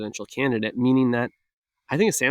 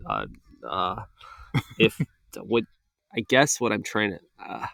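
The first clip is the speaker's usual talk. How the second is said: put-on halting, mumbling old politician voice; Sleepy Joe impression. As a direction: stumble and trail off like a tired old man. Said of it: "that was my Sleepy Joe impression".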